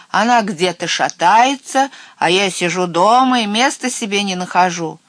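loud, aggrieved raven scolding; indignant squawk. A narrator's reading. Raven scolding his friend for wandering, indignant. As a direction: complain at full voice, affronted. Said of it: "возмущённо каркал он на весь лес".

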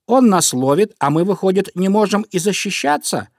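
high, loud little mouse protest; squeaking indignant mice. A narrator's reading. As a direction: argue back in a piping mouse voice. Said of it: "запищали мышки".

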